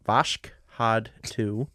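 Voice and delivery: slow, stumbling over Vashkhad; struggling to say Vashkhad; fumbled name. Real, not acted. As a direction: sound out Vashkhad haltingly. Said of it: "You can't even say the word".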